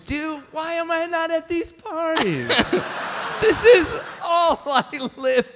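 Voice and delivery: high, airy dude voice; surfer bro voice. Pretend. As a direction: say it like a stoked bro. Reacting to the listener letter.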